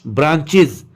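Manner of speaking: an i vowel and z ending ब्रांचेस; correct "iz" ending. Shown as a demonstration. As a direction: say ब्रांचेस as "branch-iz". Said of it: "ES को इज पढ़ेंगे".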